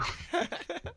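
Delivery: unvoiced high burst of laughter; breathy high laugh. Real, not acted. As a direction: let out a breathy giggle. Laughs at own joke.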